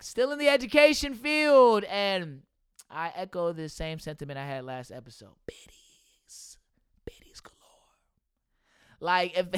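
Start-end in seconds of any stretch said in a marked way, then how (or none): 5.5-7.6 hushed, whispered aside; whispered under your breath; playful whisper. Pretend. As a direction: whisper it like a naughty secret. Confides aside about biddies at work.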